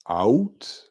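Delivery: "out" stretched with a rising tune; trying out pronunciations. Shown as a demonstration. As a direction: draw out "out" as another way to say it. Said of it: "how many different ways you could pronounce".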